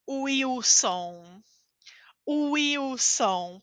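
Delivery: Wilson said as uiwson, the W like U. Shown as a demonstration. Teacher showing the W sound in Wilson. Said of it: "pode ser de U".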